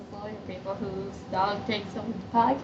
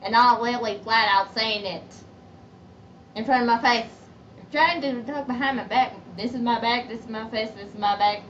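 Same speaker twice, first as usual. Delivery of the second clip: louder, emphatic telling-off; firm, raised-voice complaint; indignant; 5 dB louder than usual. Real, not acted. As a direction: call out the whisperers, loud and pointed. Complaining about people whispering about her.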